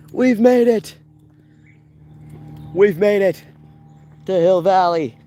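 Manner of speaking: loud, high triumphant cry; triumphant shout. Real, not acted. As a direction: announce the arrival in triumph.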